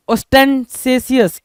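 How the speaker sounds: ostentatious with an s sound, os-ten-SAY-si-us; "-sesious" pronunciation. Shown as a demonstration. Teacher reads out the question word, ostentatious said slowly as os-ten-say-si-us. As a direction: say ostentatious slowly, third syllable "say". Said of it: "सेसियस पढ़ते हैं इसको".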